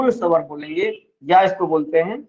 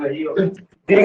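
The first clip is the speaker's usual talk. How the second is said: slow drawn-out word; 4 semitones lower, much slower than usual. Shown as a demonstration. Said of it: "जहां ज्यादा जोर लग रहा है ना".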